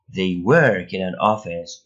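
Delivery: slow, carefully spaced English; slow example read. Shown as a demonstration. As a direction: read it out slowly for learners. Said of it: "teacher reads example sentence".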